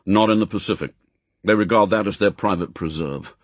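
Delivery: fast, firm briefing; M, brisk chief. Acted. Chief briefs agent on new posting, brisk and firm. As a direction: rattle off the orders. M answers.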